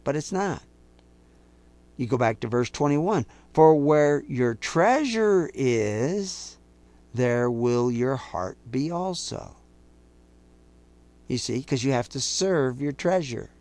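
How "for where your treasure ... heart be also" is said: slow scripture reading. Real, not acted. Quoting scripture slowly.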